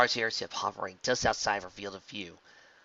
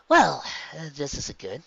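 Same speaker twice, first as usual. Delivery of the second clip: lightly voiced wary hero; uneasy, half-joking; worried heroine; 5 semitones higher, 7 dB louder, slower than usual. A narrator's reading. Rainbow Dash sees more chariots.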